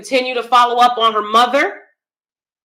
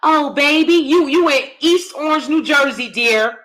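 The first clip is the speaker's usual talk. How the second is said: mock sweet mother; 4 semitones higher than usual. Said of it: "how these women talk to their kids".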